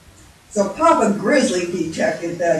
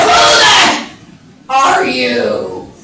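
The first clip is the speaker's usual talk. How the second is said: slow, loud furious growl; enraged bear bellow; growling Papa Bear; 9 dB louder, much slower than usual. Acted. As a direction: roar it at an intruder, each word drawn out. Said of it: "And he growls!".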